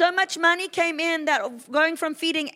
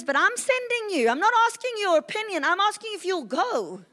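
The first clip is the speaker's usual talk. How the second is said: voice of the Lord; 5 semitones higher than usual. Retold or imitated. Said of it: "And the Lord says".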